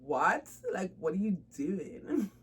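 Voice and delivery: laughing mock stranger. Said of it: "people's gonna be like".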